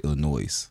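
Illinois with the final S sounded; imitated mispronunciation. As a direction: say Illinois as "ill-uh-NOIZ". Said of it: "It bothers me people say".

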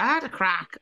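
put-on a weak, hammy Irish accent; bad Irish accent. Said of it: "That's a terrible Irish accent".

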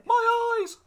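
high, loud shriek; mock pained shout. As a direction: cry out as if blinded. Joking about film horror.

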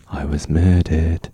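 low, slow British princess impression; Princess Diana. Host mimicking the late princess for co-host, low slow delivery. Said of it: "Princess Diana is like".

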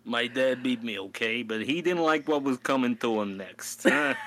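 loud hammed-up New York mobster; mock New York mob accent, loud. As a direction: threaten like a wiseguy. Mob tough guy bit.

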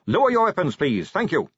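high-pitched order easing into politeness; commanding call. A narrator's reading. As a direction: order them firmly, then thank them politely. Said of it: "he roared".

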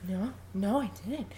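soft, trailing mumble; feeble denial. Retold or imitated. Podcaster acts out husband not defending himself, feeble soft denial. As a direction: deny it weakly, barely audible by the end. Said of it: "not even defending himself".

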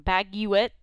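"Baguette" said as bag-you-it; spelling pronunciation. Shown as a demonstration. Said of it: "That's how it's spelled".

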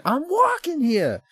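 high, drawn-out mock shout; classic movie line. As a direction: belt out the famous film line, stretched and high. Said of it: "the one with the classic scene".

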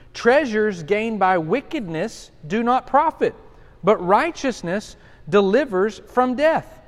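slow, solemn verse reading; measured pulpit reading; scripture reading. Acted. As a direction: let each phrase land. Reads scripture aloud.

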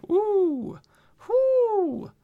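two drawn-out high hoots; wince-and-whoop at a grim threat; high-pitched "ooh". Real, not acted. Reacting to the villain's promise of pain, high drawn-out oohs.

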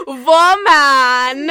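high, very loud drawn-out cartoon cry; hammed-up cartoon character bellow; pastry guy impression. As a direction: belt it out like a frazzled cartoon baker. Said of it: "When he says".

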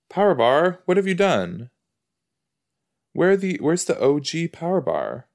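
high, upset "what have you done"; mock outrage at a snack; dismayed. Real, not acted. Dismay at rebranded bar.

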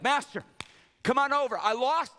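high, loud, flustered plea, stumbling over words; panicked servant. Acted. Servant calls his master over the lost axe head, panicked.

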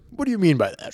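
lightly imitated comedian; Druski. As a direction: quote it in a mildly mimicked comic timbre. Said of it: "it was the exact timbre that Drewski had".

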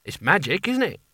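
rising, eager question; hopeful. Acted. Nigel showing the stolen lamp, hopefully high. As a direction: offer it up hoping they'll approve. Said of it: "he said hopefully".

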